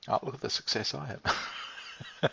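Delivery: slow, whispered self-mocking sarcasm; mock your own success under your breath; sarcastic aside. Speaker mocking own success to friend, slow sarcastic whisper.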